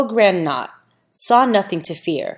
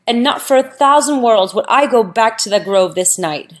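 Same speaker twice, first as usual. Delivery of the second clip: frightened lament; 4 semitones higher, 4 dB louder than usual. Acted. Veda frightened after dropping holy book.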